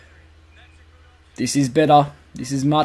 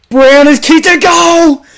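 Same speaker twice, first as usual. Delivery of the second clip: slow, higher commentator proclamation; goal call; 6 semitones higher, 3 dB louder than usual. Acted. Announcing the goal to his audience, proud. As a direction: announce it like a broadcaster.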